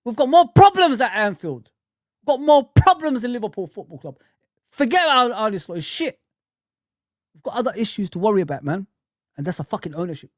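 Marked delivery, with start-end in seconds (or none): 0.0-6.2 put-on repeating his old rant, raised and heated; hammering it home like he did back then; a heated replay of his own old rant; retold loud rant. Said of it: "I said".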